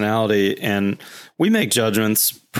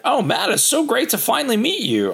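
high, gushing client greeting; gushing prospect; 14 semitones higher than usual. Retold or imitated. Prospect gushing at finally meeting Matt, high voice. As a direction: play the eager client meeting him at last. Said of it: "the people would be like".

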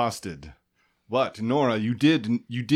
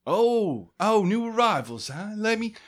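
clerk voice; 9 semitones higher than usual. Acted. GM voicing Debbie at the guild desk, chirpy and high. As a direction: greet them like a cheery desk clerk. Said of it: "Debbie voice".

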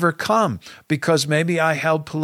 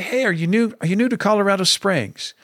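a higher, quicker cheery welcome; bright friendly greeting; 5 semitones higher, faster than usual. Retold or imitated. Pastor welcoming a new visitor with his gift bag, cheerfully upbeat. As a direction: greet them like a warm host.

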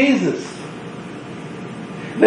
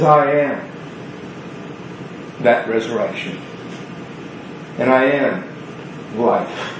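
solemn Jesus; 7 semitones lower, 8 dB quieter than usual. Acted. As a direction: let each word land quietly. Preacher voices Jesus solemnly.

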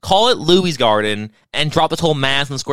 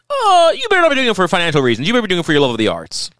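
mocking lecture; 5 semitones higher, faster than usual. Mocking what everyone says.

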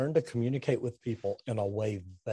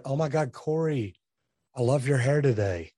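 gushing compliment. Shown as a demonstration. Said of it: "You may wanna hear".

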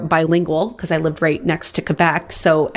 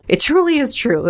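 said again much higher, sing-song; playful high repeat; 7 semitones higher than usual. Shown as a demonstration. Host repeating her own phrase to listeners, high and playful. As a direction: jump way up in pitch to mock yourself. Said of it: "me not even making much sense".

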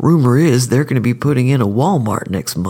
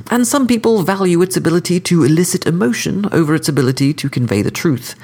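higher, refined courteous assassin; cordial sophisticated killer; 6 semitones higher than usual. Acted. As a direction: lecture the court, smooth and polite. Skidmire lectures the court.

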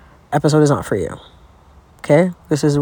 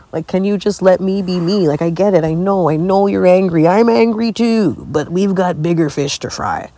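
exasperated pleading; 3 semitones higher than usual. Acted. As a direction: plead your case in a playful quarrel. Acted argument pleading with her vulva.

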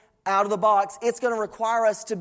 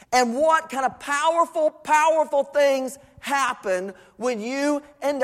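slow, higher preacher's swell; emphatic preaching; 5 semitones higher than usual. Acted.

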